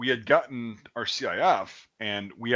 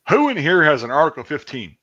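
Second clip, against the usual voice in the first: raised, louder parade-ground call; imitated sergeant calling out; drill sergeant's shout; 4 semitones higher, 7 dB louder than usual. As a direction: demand it of the whole room, high and loud. Drill sergeant addressing the recruits.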